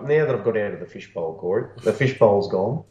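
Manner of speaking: talking through a paper cone; muffled cone voice, hollow and boxy; paper cone megaphone. Real, not acted. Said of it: "Sound like you're talking through the cone".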